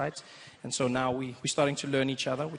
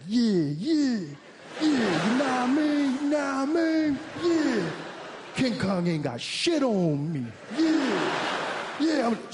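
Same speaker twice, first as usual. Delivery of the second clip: higher, louder hammed-up black American slang; black American accent; 8 semitones higher, 3 dB louder, much slower than usual. Boy on the plane rehearsing black American talk, hammed-up accent. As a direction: ham up a practiced street swagger.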